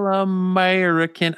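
high, badly faked Australian singing; attempted Australian accent. Trying a wrestler's theme song, badly faked Australian accent. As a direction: belt the theme in a shaky-fit Australian accent. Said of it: "I can't do an Australian accent".

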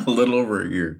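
high laugh, then a mocking echo. Repeating the opponent's boast to the hosts, mocking laughter.

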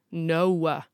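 "No" drawn out as "no-oo-wuh"; tortured triphthong. Acted. Kid refusing to tidy room, tortured triphthong. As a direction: refuse with "No" bent through three vowels. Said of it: "tortured into a whole triphthong".

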